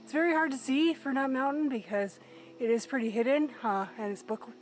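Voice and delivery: wheezing while climbing; breathy wheeze between words; wheezy voice. Real, not acted. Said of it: "you might notice that I'm wheezing a lot".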